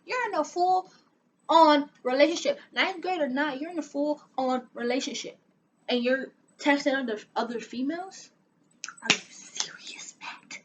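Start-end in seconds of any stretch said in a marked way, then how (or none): 0.0-5.4 high, pointed scolding; indignant scolding. Retold or imitated. Scolding cheating boyfriend. 9.0-10.6 hushed, stunned whisper; whispered disgust. Retold or imitated. Disbelief at boyfriend.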